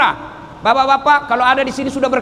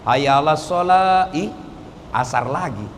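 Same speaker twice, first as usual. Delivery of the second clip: grudging; 8 semitones lower, slower than usual. Retold or imitated. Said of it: "tapi tidak ikhlas".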